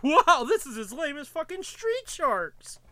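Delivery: high, slow mocking whine. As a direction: sneer it out in a silly voice. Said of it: "we wanted to be like".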